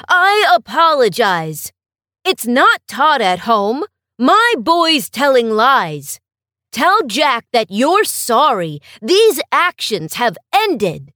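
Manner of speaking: a father owning the shame out loud; firm apology. Acted. Ashamed father apologizes firmly.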